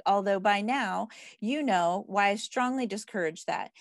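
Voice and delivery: measured read-aloud of a self-help book. Acted. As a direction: read the page out to a group, phrase by phrase.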